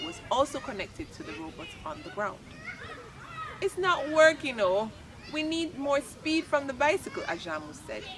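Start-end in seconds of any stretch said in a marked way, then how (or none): 3.6-7.2 loud excited call. Acted. Friends urging robot to work.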